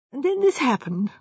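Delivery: mildly distraught confession; despairing young architect. Acted. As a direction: lament haltingly that all is lost. Architect despairs over his engagement.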